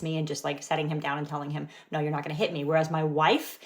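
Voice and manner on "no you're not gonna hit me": calm and even, not raised; calm boundary. Retold or imitated. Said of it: "not raising my voice".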